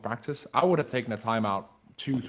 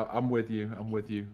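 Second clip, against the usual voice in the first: husky voice; 3 dB quieter than usual. Real, not acted. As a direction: voice coming through husky. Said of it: "You just sound husky with me".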